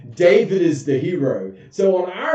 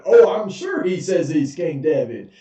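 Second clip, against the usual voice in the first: king scoffing back; sarcastic king. Retold or imitated. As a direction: scoff at the servant's claim.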